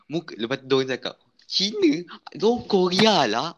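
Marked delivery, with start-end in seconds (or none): 1.5-3.6 high, indignant retort; mock angry fans. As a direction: squeal it back, offended. K-pop fans snapping back, quoted.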